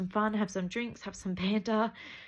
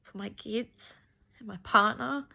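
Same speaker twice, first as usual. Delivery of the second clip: fighting back tears while talking, higher voice; crying; 6 semitones higher than usual. Real, not acted. To her followers about her arm, crying for real. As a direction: voice breaking into high, tearful sobs. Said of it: "Sorry, I don't mean to cry".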